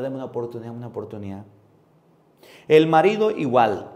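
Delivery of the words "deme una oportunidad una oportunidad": softer, falling plea for another chance; mock tearful begging. Preacher imitates a fired employee, mock tearful begging. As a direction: beg meekly, voice sinking, in imitation. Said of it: "ahí sí anda llorando".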